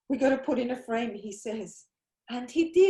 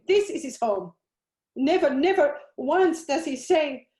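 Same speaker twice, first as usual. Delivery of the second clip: anguished demand; 4 dB louder than usual. Acted. Grieving mother demands answers.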